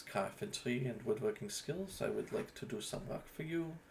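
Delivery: a gentle in-character self-introduction; vampire artisan character voice. Shown as a demonstration. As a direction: introduce yourself as a proud artiste. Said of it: "leagues better than when I started with that same voice".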